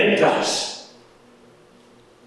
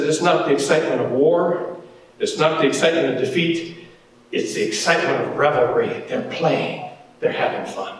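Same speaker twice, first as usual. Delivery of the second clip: Moses; 3 semitones lower, faster than usual. Acted. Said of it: "Moses says".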